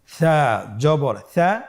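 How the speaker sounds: drawn-out syllables in an even chant; stretched, measured letter-by-letter recitation; slow spelling drill. Shown as a demonstration. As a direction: lead learners through each sound, very slowly.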